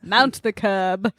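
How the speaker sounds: very slow mock vigilante voice; Batman. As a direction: draw it out like a brooding masked hero. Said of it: "to do that voice".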